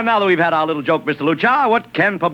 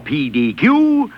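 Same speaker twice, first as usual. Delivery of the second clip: slow spelled-out letters; much slower than usual. Retold or imitated. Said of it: "you run an ad saying".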